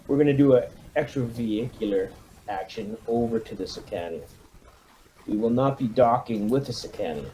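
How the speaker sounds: brief the troops like a hard-nosed CO; commanding officer briefing. Acted. Commander briefing his marines before the rescue mission, lightly rousing.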